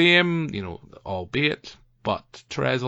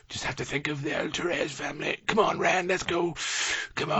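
higher, softer teasing imitation of a frantic shopper; mock Therese panic-shopper; 7 semitones higher, 4 dB quieter than usual. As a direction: mimic her hurrying the family along. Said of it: "as she walks around going".

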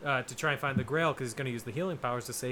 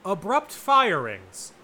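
sponsor read; slower than usual. Pretend. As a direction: read it like a podcast ad.

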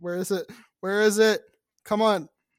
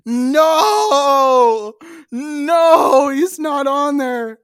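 loud outburst; 5 semitones higher, 7 dB louder, much slower than usual. Real, not acted. Outraged Cameo search fails.

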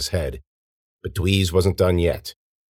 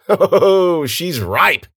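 high, gloating catcall; leering jeer; 11 semitones higher, 5 dB louder, much slower than usual. A narrator's reading. Second man leers at the girl, jeering. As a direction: crow it as a lewd taunt.

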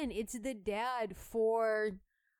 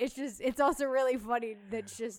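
trying not to laugh; 6 dB louder than usual. Real, not acted. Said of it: "I'm trying not to laugh about it".

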